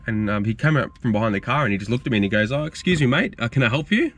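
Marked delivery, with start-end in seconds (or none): 2.5-4.1 higher-pitched pointed offer of help; mock-polite challenge, pitched up; retold mild rudeness. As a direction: imitate someone being a bit rude, without raising volume. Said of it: "he was like, you know, a bit, you know, rude".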